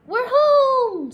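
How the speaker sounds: high, loud cry of joy; a child's glad shout of relief; happy cry. Acted. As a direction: call it out with delight to be home. Kids arriving home in relief.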